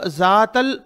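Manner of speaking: जातल with a buzzing z at the start; mispronounced letter. Shown as a demonstration. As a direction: say जातल as zatal with a plain z. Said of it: "तो गुनाह हो जाएगा".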